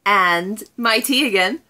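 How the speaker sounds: a light, wobbly Scottish accent put on for fun; terrible Scottish accent. Vlogger greeting her viewers in a mock Scottish accent. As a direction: play at being Scottish, not too well. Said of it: "I do apologize for probably the terrible Scottish accent that I'm doing".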